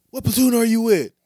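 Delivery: high mock soldier voice; soldier asking. Retelling to friends, a soldier asks who he is, high mock voice.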